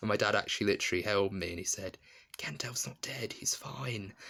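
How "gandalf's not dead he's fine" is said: high-pitched soft whispering. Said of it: "he whispered in my ear".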